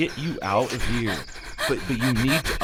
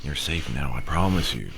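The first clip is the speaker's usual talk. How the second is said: reassuring; 11 semitones lower, 4 dB quieter than usual. Acted. Officer reassuring frightened woman.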